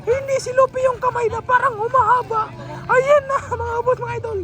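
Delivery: lively commentary with punched calls; excited play-by-play. Real, not acted. Commentator addressing fans during an attack, excited. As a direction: talk the audience through the move with energy.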